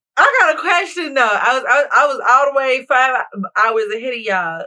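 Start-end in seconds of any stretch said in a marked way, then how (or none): 1.2-4.6 stuttering, louder. Speaker back from out of the country asks everyone a question, stuttering. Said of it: "Look, I'm stuttering".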